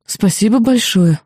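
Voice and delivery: slow, very polite thanks. Acted. Student politely thanking the demon who saved her, slow and courteous. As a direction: thank him sweetly and carefully. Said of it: "очень вежливо отозвалась я".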